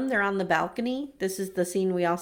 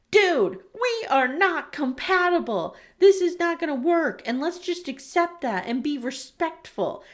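exasperated; 5 semitones higher than usual. Retold or imitated. Acted exasperated plea.

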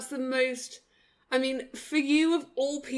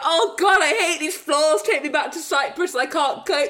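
whiny pet complaint; 3 semitones higher than usual. Pretend. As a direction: moan like a pampered dog who misses Cyprus. Voicing the dog complaining about floors.

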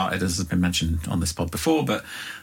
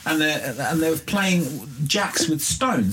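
put-on high, lively Irish accent; 5 semitones higher than usual. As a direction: tell it in a broad Irish accent. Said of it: "I'm about to do an Irish accent".

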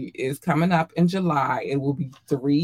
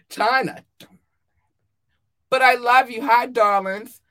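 high cooing; 8 semitones higher, 6 dB louder than usual. Real, not acted. Coos at fans, laughing.

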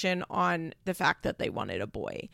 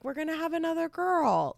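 higher, lightly sweet husband's voice; sweet reassurance; 8 semitones higher than usual. Retold or imitated. Husband reassuring his wife about a baby girl, in a lightly imitated sweet voice. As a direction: gently reassure her, imitating him lightly. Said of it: "Tyler says really sweetly".

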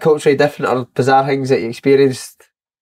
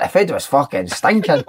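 mock disgust. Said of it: "he's like".

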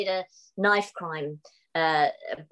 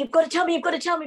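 pleading; 9 semitones higher, 3 dB louder, much faster than usual. Retold or imitated. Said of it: "We went".

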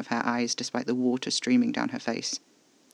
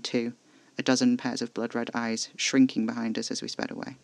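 ordinary delivery

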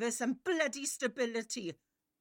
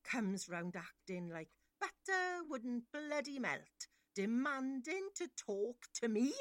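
quiet contempt; 6 dB quieter than usual. Acted.

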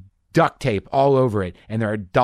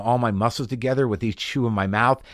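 ordinary talk, nothing marked

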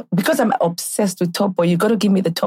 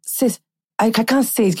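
hammed-up Nollywood-style Nigerian accent; movie Nigerian accent. Retelling an introduction to a man, movie Nigerian accent. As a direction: overdo a film Nigerian accent. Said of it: "I was doing that movies Nigerian accent".

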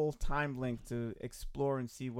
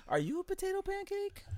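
laughing; 5 dB quieter than usual. Real, not acted. Teasing question through laughter.

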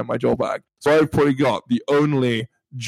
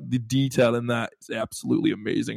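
lightly put-on American accent; attempted American accent. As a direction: imitate an American, only faintly. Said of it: "try and do an American accent".

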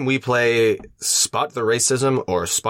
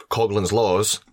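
drawn-out Australian announcement; Australian accent; 3 semitones lower, slower than usual. Acted. Podcast co-host titles his drinking-game rules, mock Australian accent. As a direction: put on an Aussie accent, slowly. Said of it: "in the Australian accent?".

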